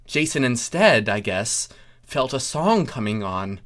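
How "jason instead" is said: usual speaking voice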